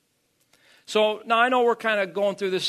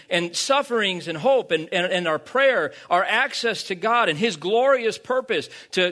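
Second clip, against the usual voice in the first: raised, driving sermon delivery; emphatic preaching; 5 semitones higher, 4 dB louder than usual. Real, not acted. Preacher sums up the passage for the congregation, emphatic. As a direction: preach it out with weight on key words.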